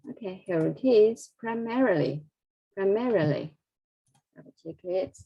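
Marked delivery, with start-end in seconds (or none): 1.4-3.5 "primarily" with MAR lifted, then falling; highlighted stress. Shown as a demonstration. Teacher drilling the word for students, highlighted stress. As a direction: stress the second syllable of "primarily" each time. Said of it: "I will highlight the stress here".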